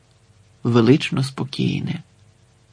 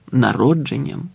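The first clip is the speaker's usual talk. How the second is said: ordinary delivery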